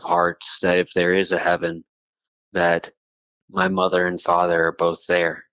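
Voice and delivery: choked up, holding back tears; crying a little. Real, not acted. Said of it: "I'm crying a little bit right now".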